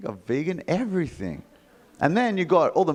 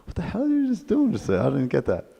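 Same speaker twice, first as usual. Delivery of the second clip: high, baffled voice for a puzzled stranger; confused onlooker; 3 semitones higher than usual. Retold or imitated. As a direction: play the bewildered passer-by. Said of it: "Some people are like".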